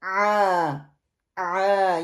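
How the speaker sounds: آ squeezed from the middle of the throat; teacher showing ain from the middle of the throat; ain sound. Shown as a demonstration. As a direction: press آ from mid-throat for ain. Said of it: "یہ middle سے آئے گا".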